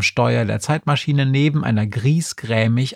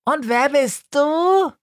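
high snail voice. Acted. Snail asking the crow, high and dreamy. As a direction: ask it like a dim tiny snail.

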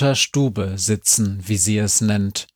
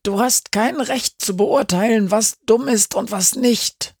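zurückgezischt; 11 semitones higher than usual. A narrator's reading. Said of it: "zischt Frau Schniggenfittig zurück".

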